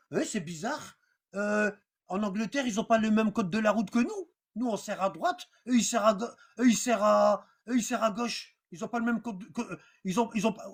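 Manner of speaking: low muttering driver. Retold or imitated. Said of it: "il va pas se dire". (conducteur qui marmonne doucement)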